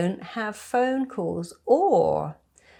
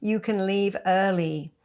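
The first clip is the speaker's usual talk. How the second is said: lightly voiced pushy asker, a bit higher; pushy organiser; 4 semitones higher than usual. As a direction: mimic a pushy host who won't take no. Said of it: "people won't go".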